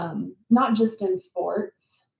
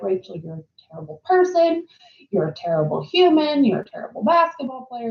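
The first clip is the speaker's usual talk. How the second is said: pitched-up mocking inner critic, berating herself; harsh self-talk; 5 semitones higher than usual. Scolding herself after the coach yells, mock harsh inner critic. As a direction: mimic the cruel voice in your head, a touch higher. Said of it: "just beat myself up and be like".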